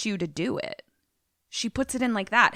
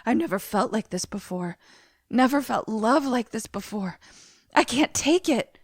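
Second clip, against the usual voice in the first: mock crying; 2 semitones higher than usual. Overwhelmed man confessing love, mock tearful and rising. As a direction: imitate a man working up to tears. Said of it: "He starts crying and is like".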